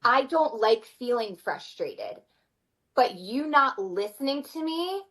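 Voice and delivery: slow, steady naming of frustration; calm I-statement. Retold or imitated. Mom telling her child she is frustrated, slow and calm. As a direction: say it slowly and evenly, eye to eye. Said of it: "I look at them and ... I say".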